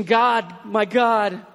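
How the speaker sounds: understated cry of anguish; retold anguished cry. Preacher voices Jesus crying out on the cross, mild anguish. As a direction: cry out with a touch of desolation. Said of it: "crying out just in anguish and misery and desolation".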